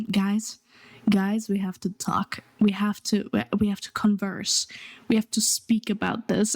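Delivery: understated mock-solemn announcement; a touch of grave, serious "we need to talk"; mock dramatic. Streamer parodying dramatic announcement streams, mock dramatic. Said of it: "so dramatic and everything".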